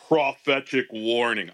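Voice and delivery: lightly put-on, loud proclamation; imagined prophetess voice. Host reading the prophecy to the panel, mock prophetess proclamation. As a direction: announce it like a would-be prophetess. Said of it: "I imagine her voice sounds like this".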